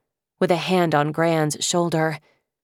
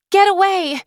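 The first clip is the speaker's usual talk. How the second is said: much higher, louder defiant yell; 6 dB louder than usual. Acted. Lily shouting at the dragon to back off, high loud yell. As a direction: throw it at the beast with everything. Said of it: "she yelled at the monster".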